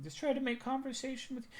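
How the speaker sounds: put-on very high, soft, pitiful little old woman murmur. After yelling at her abuela, the speaker imitates her as a pitiful poor little abuela. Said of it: "being like the poor little abuela".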